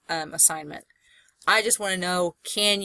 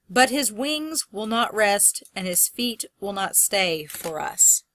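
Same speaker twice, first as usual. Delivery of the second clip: slow poem reading; slower than usual. Shown as a demonstration. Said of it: "There's not really anything emphasized there".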